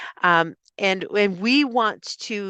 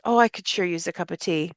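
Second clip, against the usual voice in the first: casual hint about tea; hinting indirectly; 3 semitones lower, faster than usual. Shown as a demonstration. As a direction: drop a hint instead of asking. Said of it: "Instead of".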